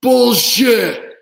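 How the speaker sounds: high loud mocking heckle; heckler shout. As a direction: call it out from the crowd. Heckler in dining room.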